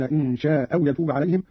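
شاء أو with one hamza, short long-a; dropped hamza, short. Shown as a demonstration. Teacher shows Qalun's reading, شاء أو merged, short madd. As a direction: run شاء into أو without its final hamza, vowel kept short. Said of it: "بإسقاط الهمزة الأولى مع القصر والمد هكذا".

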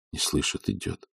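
whispered aside, no voice; a man muttering to himself as she leaves; despairing whisper. Acted. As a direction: breathe it out in defeat. Despairing aside after shout.

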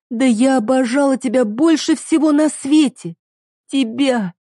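wife crying out her lost love; anguished cry. Acted. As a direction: pour out the hurt. Heroine cries out.

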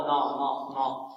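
نا with light, thin nun. Shown as a demonstration. Teacher drilling the light nun syllable. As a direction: keep the نا light, not heavy. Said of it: "نرقق النون".

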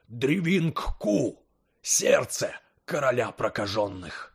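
slow, awed cry of discovery; excited exclamation. Acted. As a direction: exclaim in trembling wonder. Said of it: "воскликнул Лакон Тай". (взволнованный возглас)

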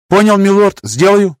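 high, quick eager reply; eager soldier. A narrator's reading. Soldier answering his lord, high and eager. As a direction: snap to it like a keen soldier. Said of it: "кивнул тот".

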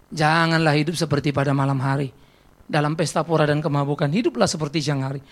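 low, measured recitation; solemn scripture quote. Acted. Reads out the verse found. (membacakan ayat dengan khidmat, nada rendah)

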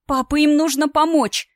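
high, loud desperate cry to father; shouted plea. A narrator's reading. Daughter shouting a plea to father over hologram, loud and desperate. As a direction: yell for help to papa. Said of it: "прокричала я".

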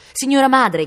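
high, loud cry; shouted call. A narrator's reading. Boy running to his mother on the terrace, shouting.

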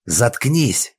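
loud snapping shout; angry shout at Yulia. A narrator's reading. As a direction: shout him down. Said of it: "крикнул Глеб".

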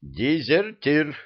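high, slow furious snap; angry bark. A narrator's reading. Mahmud barking angrily at the vizier. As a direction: bite off the words in rage. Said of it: "гневно рявкнул Махмуд".

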